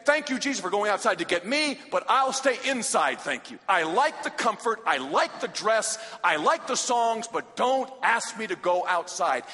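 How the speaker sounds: hammed-up comfy believer; mock complacent churchgoer. Preacher mocking comfortable church folk, smug. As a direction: parody the ones who stay inside. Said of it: "we've said".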